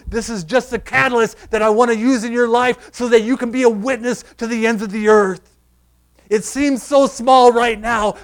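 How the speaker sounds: building, insistent sermon run; impassioned preaching. Acted. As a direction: drive the repeated phrases forward without letting up.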